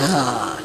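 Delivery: low, soft sigh of mock exhaustion; exhausted sigh. Speaker mimics worn-out followers facing the work, mock exhausted sigh. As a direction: let out an acted weary groan. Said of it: "here we are already exhausted".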